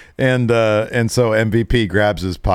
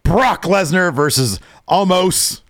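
higher, slow booming ring call; announcer voice; 10 semitones higher, 3 dB louder, slower than usual. Retold or imitated. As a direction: draw out the names like an announcer. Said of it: "Brock does his best announcer voice".

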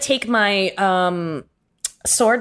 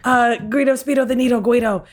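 a touch higher, earnest plea; pleading; 4 semitones higher than usual. Acted. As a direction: beg your old friend to remember. Pleading with former friend.

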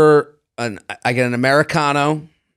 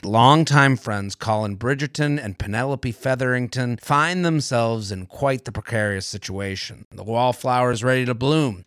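ad read; 4 dB quieter than usual. Acted. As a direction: read it like a teasing show trailer. Read ad for Netflix show.

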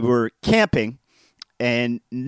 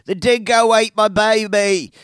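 high, loud mock Australian cry; Australian accent; 9 semitones higher, 5 dB louder than usual. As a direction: quote the famous line in a hammed-up Australian accent. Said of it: "the famous line is uttered".

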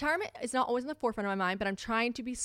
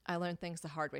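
small, soft retold reply; subdued admission; 3 semitones lower, 7 dB quieter than usual. Admitting fault to the friend, subdued and soft. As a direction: own up quietly after the meltdown.

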